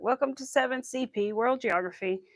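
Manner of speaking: put-on a barely-there British accent on the teacher's greeting; only a hint of the British accent this time; faint British impression. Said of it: "I can't do it good anymore".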